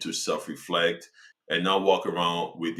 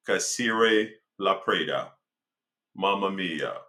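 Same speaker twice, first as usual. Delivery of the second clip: put-on Italian accent. Vlogger joking to viewers in a put-on Italian accent. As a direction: ham up an Italian accent, slowed down. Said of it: "I'm gonna try to use my Italian accent here".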